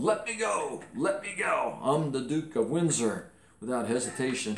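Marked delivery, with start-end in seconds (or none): 0.0-3.3 high mock yell of a boy caught by a guard; yelled plea. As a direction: squeal it like a caught little prince. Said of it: "I yelled".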